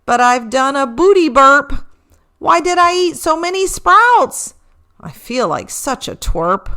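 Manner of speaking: sheepish reindeer, a touch embarrassed; mildly embarrassed Rudy; lightly voiced Rudy. A narrator's reading. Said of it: "said Rudy".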